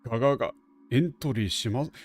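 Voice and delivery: stuttering broken robot; glitchy machine, repeating syllables; glitching robot voice. Retold or imitated. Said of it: "It's talking like a broken robot".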